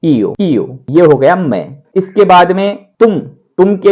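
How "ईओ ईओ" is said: ईओ said as two vowels, ई then ओ; teacher demonstrating Italian io; Italian pronunciation. Shown as a demonstration. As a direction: model ईओ carefully. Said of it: "बार बार ये सुनेंगे".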